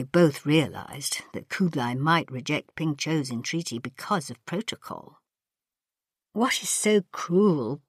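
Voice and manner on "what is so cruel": miserable. Acted. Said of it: "Ping Cho said miserably".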